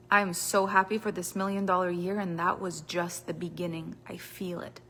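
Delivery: soft, sinking statement of belief; quiet affirmation. Shown as a demonstration. Coach modelling a confident affirmation, softly. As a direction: murmur it like a private promise. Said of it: "Power looks like I say".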